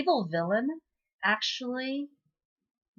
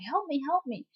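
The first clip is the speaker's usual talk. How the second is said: lightly acted high-pitched plea; mock plea for help; 7 semitones higher than usual. Trapped hunter voiced, begging for help.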